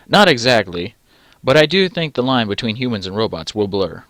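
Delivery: loud expert guest; lightly voiced professor; professor character. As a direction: project it like a lecturing professor. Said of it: "Professor Ziegler says".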